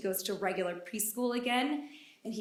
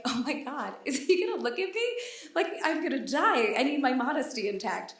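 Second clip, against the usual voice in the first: 1 giddy panic; 2 semitones higher than usual. Retold or imitated. Her panicked thought on seeing the doctor.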